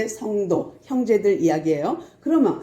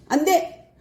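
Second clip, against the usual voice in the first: refusal; 7 semitones higher, slower than usual. Retold or imitated. Edomites refusing passage.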